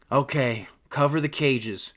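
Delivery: brisk gang leader's order; commanding. Acted. Gun-toting leader instructing the gang, commanding. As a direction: give it as a command. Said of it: "commanded Ted".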